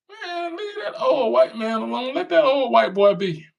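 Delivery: high put-on voice telling them off; mock scolding voice. Mocking Biden defenders.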